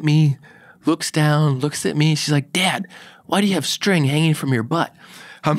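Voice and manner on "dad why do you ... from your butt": imitating little daughter. Voicing his young daughter's question.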